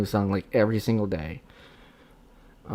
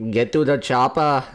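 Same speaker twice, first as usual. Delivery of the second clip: action hero movie quote; 3 semitones higher, 6 dB louder than usual. Pretend. Repeating the movie line louder.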